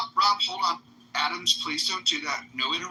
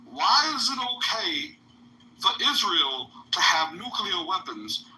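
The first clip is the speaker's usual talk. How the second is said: mocking impersonation; 3 semitones higher, slower than usual. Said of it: "accent and impersonation".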